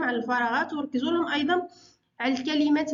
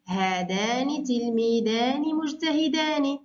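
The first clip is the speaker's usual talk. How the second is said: إملاء بطيء؛ هذانِ تلميذانِ مجتهدانِ بنطق الألف والنون بوضوح؛ ببطء مع إبراز علامة المثنى؛ معلمة تملي جملة المثنى ببطء. Shown as a demonstration. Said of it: "حول إلى المثنى".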